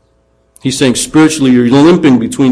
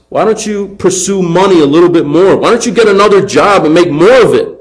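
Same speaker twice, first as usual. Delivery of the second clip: higher, sing-song mocking suggestions; sarcastic urging with swooping pitch; taunting; 6 semitones higher than usual. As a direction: goad them like a taunting prophet. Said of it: "And Elijah taunts".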